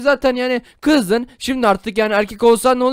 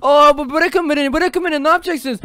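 put-on boy being held down begs friends to release him, panicky; mock panic; 3 semitones higher, 3 dB louder than usual. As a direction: struggle and beg, hammed up.

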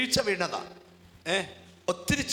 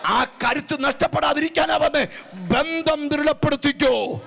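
slow, louder and higher preaching build; rising preaching; 7 semitones higher, 4 dB louder than usual. Acted. Preacher urging the congregation, building loud and slow. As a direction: swell the sermon toward its climax.

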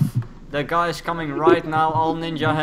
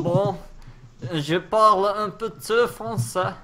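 mock French; 4 semitones higher than usual. Shown as a demonstration. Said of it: "That's all I could say".

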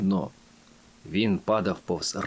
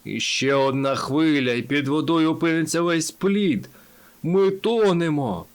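panicked alarm; 4 semitones higher, 3 dB louder than usual. A narrator's reading. Timi warning that the raft is sinking, panicking. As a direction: build from worry to panic. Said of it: "термітове серце шалено калатало".

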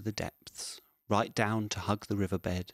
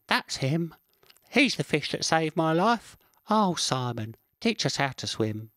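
excited squirrel; 6 semitones higher than usual. Acted. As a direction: show off the hero fish to friends. Squirrel presents Simon to friends.

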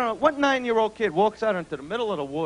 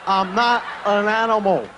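1 imitating Elephant Man.

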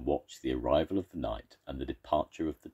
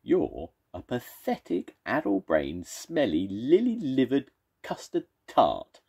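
mock scream; 7 semitones higher, 4 dB louder than usual. Second monster screams insults at the first. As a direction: wind up to a screeching finish. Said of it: "screamed the second monster".

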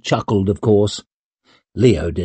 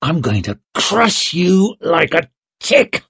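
higher-pitched playful threat while sparring; mock growl; 6 semitones higher than usual. A narrator's reading. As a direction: taunt a friend with a sword in hand. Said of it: "growled Leo".

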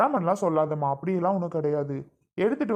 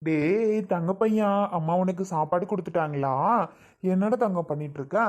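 tender, slightly lilting coaxing; doting baby talk. Acted. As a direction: fuss lovingly over a little one. Doting talk to small child. (குழந்தையைக் கொஞ்சும் குரல்)

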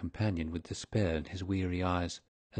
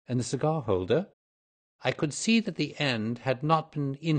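lightly voiced detective, higher-pitched and lively; keen detective; 4 semitones higher than usual. Detective explaining his deductions, lightly voiced and animated.

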